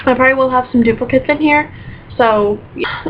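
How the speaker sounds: talking through hiccups; hiccuping between words. Real, not acted. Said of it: "I have the hiccups now".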